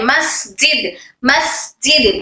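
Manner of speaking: "मस्जिद" with long hissed s before jid; correct airy seen. Shown as a demonstration. Teacher drills the right word for learners, "मस्जिद" with airy s. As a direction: separate "mass" and "jid" in "मस्जिद". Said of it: "मस है".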